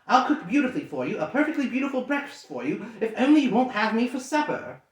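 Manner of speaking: breathless pleading. Acted.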